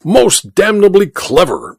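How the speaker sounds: high-pitched ducal exclamation; exclaiming. A narrator's reading. Duke to his colonel on the scheme, exclaiming. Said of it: "exclaimed the Duke".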